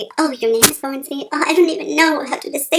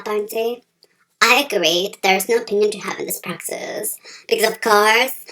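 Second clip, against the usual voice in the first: deep interviewer voice; 4 semitones lower than usual. Acted. Low interviewer voice continues.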